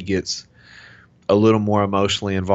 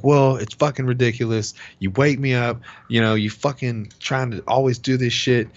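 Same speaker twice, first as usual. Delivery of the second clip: retold angry griping, raised pitch; imitated complaint; 5 semitones higher than usual. Husband imitating his wife griping about being woken, annoyed. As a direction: mimic an irritated partner complaining.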